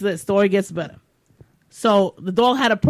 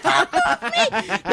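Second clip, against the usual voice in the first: high, frantic yelling husband; 13 semitones higher than usual. Retold or imitated. Husband fighting the dog off, high frantic yell.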